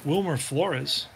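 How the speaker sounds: steady broadcaster voice calling each pitch; play-by-play call. Acted. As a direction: call the game like a radio announcer. Back to calling the game.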